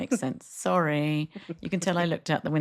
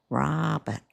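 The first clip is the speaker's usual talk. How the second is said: drawn-out Canadian Robert; kids' new Canadian accent; 3 semitones lower than usual. Retold or imitated. Mum repeating the kids' answer, imitated Canadian accent. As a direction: mimic a kid's Canadian vowel in Robert. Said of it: "I heard their accents change".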